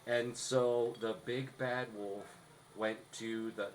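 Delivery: slow, lifeless read with no energy; a deliberately dull bad-example read; low-energy read. Shown as a demonstration. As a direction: read it flat and bored, like a chore. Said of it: "instead of just".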